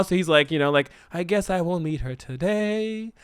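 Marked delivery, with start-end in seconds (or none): 1.1-3.1 mock sad guy. Voicing sad jilted man.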